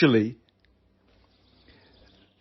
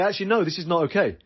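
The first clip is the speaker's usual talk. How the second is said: firm refusal. Pretend. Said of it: "let your Rottweiler off the leash and say".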